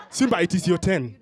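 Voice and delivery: mock Hollywood African accent; lightly hammed Black Panther-style African accent. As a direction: intone it in a movie African accent. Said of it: "with that Black Panther accent".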